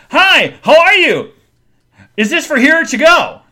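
high, loud sing-song greeting; bright pushy waitress sing-song; chirpy server voice. Retold or imitated. Server greeting customers at the counter, high sing-song. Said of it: "this lady goes".

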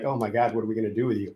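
soft, mock-despairing sigh; hushed, put-on exasperation; imitated sigh. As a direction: sigh it quietly, imitating helpless disbelief. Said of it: "but also like a sigh".

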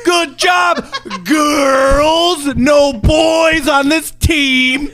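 put-on girls! stretched and pushed high; stress on girls. Shown as a demonstration. Friend demonstrating the jab at the girls' team. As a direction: lean hard on girls!. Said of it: "really emphasized girls".

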